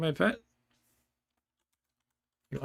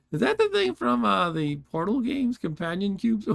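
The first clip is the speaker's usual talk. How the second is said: amused laughing; 7 semitones higher, 4 dB louder than usual. Real, not acted. Amused by hallucination message.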